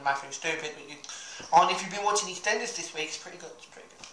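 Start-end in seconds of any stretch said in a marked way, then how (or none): 3.6-4.1 whisper. Shown as a demonstration. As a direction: breathe it out as a secret whisper. Repeat of line 99 whispered.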